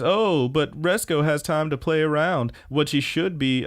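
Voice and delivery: lightly acted sneering boss; sarcastic scolding. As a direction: needle her with feigned surprise.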